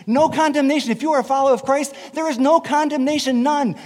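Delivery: NO punched high and loud each time; emphatic preaching. Real, not acted. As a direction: hammer the word no home to the congregation. Preacher drives home the verse.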